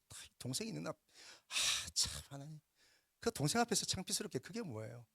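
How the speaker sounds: mild, aggrieved protest to God; imagined grumbling Cain. Acted. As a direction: act out embarrassed excuses and complaint. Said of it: "아마 이랬던 것 같아요".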